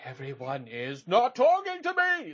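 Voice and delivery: slow, loud strained stage-whisper yell; hiss-yell it slowly with a tight, breathy push; whisper shout. Retold or imitated. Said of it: "had, like, the whisper shout performance".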